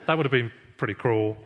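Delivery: normal talking voice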